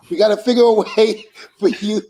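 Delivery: loud excited call, laughing through it. Retold or imitated. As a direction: shout his name across the room. Bubba calling out to Devon.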